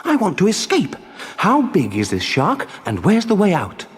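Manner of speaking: high, urgent puppet voice; distressed cry. Acted. Puppet begs the tuna for a way out, crying out. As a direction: fire off desperate questions in a high voice. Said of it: "cried the puppet".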